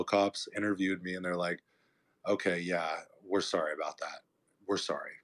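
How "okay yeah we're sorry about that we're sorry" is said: low, understated official apology; lightly imitated apologetic cop. Two cops apologise after interviewing him, lightly imitated apology. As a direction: apologise evenly, voice dropped, like a cop.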